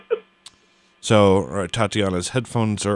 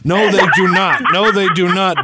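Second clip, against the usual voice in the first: raised, louder insistent no; indignant denial; 6 semitones higher, 3 dB louder than usual. Real, not acted. To friends teasing her, an indignant louder denial. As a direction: protest it hotly, twice over. Insisting, annoyed at supermarket shoppers.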